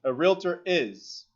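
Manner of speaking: slow, stressed realtor; slow emphasis. Shown as a demonstration. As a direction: lean on realtor. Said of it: "level three question of being tricky".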